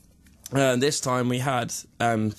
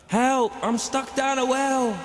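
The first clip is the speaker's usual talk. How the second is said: far-off echoing cry for help; down a well; 12 semitones higher, slower than usual. Pretend. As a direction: call up from the bottom of a well. Reverb joke, calling for help.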